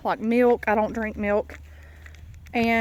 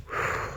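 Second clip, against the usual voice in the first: winded exhale; 9 dB quieter than usual. Real, not acted. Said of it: "I am so out of breath".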